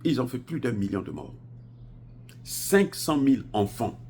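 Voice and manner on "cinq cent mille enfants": loud, high and drawn-out; emphatic outcry. Real, not acted. Vlogger stressing the children killed in Iraq, emphatic outcry. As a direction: hammer out the figure slowly and high.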